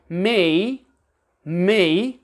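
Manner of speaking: me with the British vowel. Shown as a demonstration. Teacher repeats the British me. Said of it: "Also the word".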